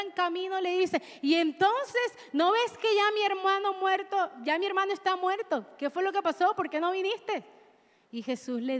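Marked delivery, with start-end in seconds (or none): 1.2-7.4 reproachful Marta. Acted. Marta reproaches Jesus on road.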